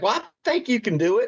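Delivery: high-pitched mimicked agent; imitating his agent. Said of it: "And she's like".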